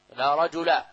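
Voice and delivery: "رجل" ending in a short -a, no n; without tanween. Shown as a demonstration. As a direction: say "رجل" as rajula, without nunation. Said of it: "دون تنوين".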